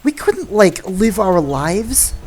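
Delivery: "We couldn't" yukarı kalkan, "live" uzatılarak yavaş; first try at the line. Shown as a demonstration. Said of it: "I gotta get the inflection right".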